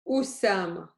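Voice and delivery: Usama begun from a closed throat; a glottal catch, then the U of Usama; glottal stop. Shown as a demonstration. Teacher repeating the word for a student who missed it, glottal stop. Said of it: "First, I started with".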